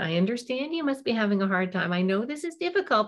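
mock-sympathetic, pitch climbing on difficult; hollow, sarcastic understanding; sarcastic sympathy. Shown as a demonstration. Parent faking sympathy over a shoe, sarcastic. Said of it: "not in a sarcastic way".

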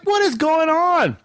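high, drawn-out mock bewilderment; bewildered exclamation. Driver watching family bolt from car, bewildered. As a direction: stretch out the baffled question, slowly.

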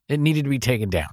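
high heated rant; indignant rant. Acted. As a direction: rant about it with outrage. Ranting about housing costs.

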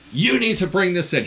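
aggressive service man, imitated. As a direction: imitate someone getting aggressive. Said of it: "He got all aggressive".

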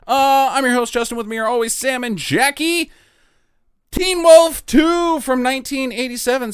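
high pitch rising at phrase ends; upspeak. Shown as a demonstration. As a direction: end every phrase on an upward squeak. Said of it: "the podcast where my voice goes up at the end of every sentence or at commas".

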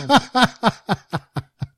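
grand rire aigu qui retombe; éclat de rire. Real, not acted. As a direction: rire franc, surpris par la vanne. Rires après la blague de S1. (éclat de rire spontané)

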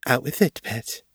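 gently given command; commanding but gentle. A narrator's reading. Mistress coaxing her troubled pet to confess, gently commanding. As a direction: coax firmly but kindly. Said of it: "The voice was commanding, but surprisingly gentle".

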